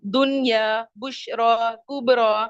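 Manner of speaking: दुनिया, बुशरा, कुबरा measured out with long final aa; दुनिया, बुशरा, कुबरा carefully enunciated, endings held; pronunciation demo. Shown as a demonstration. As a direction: sound out दुनिया, बुशरा, कुबरा one at a time to show the rhyme. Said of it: "खड़ी जबर की sound".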